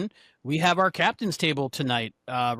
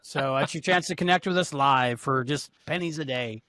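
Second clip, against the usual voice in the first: chipper 1950s ad; 2 semitones lower than usual. Acted. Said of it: "like that".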